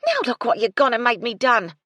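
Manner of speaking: loud, high accusing shout; angry yell. A narrator's reading. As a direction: blame her at full voice. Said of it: "Gertie yelled".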